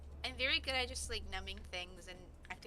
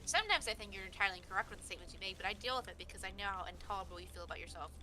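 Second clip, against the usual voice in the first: flat, cold, deadpan insults; monotone mean insult. Shown as a demonstration. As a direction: deliver the insults in a dead monotone. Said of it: "It's really easy to do it really monotone".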